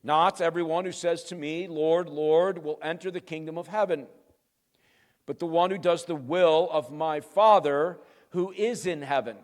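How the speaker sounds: measured, emphatic verse reading; weighty reading at an unhurried pace; deliberate scripture reading. Real, not acted. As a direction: read the verse out firmly, with pauses between phrases.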